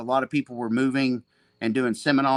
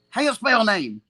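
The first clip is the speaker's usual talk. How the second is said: higher, broken-English question; Seneca impression; 8 semitones higher, 4 dB louder than usual. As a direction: ask bluntly in choppy English. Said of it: "I got a good Seneca impression".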